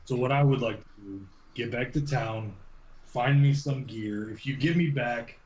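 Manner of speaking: measured in-character plea, broken by pauses; lightly acted man haltingly striking a deal; lightly voiced weary bargainer. Man asking to be taken back to town, halting bargaining. Game master plays Carrick bargaining.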